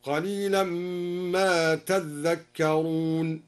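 slow drawn recitation with a held, doubled ذ in تذكرون; doubled dhal. Shown as a demonstration. Teacher demonstrates al-Duri's reading, تذكرون with doubled dhal. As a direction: press into the geminated dhal of تذكرون. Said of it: "وشدد الذال من قوله تعالى".

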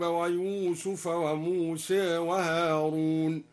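"موسى" and "هارون" with a small imala, between a and e; taqlil on Musa and Harun. Shown as a demonstration. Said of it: "وقلل موسى وهارون". ("موسى" و"هارون" بالتقليل)

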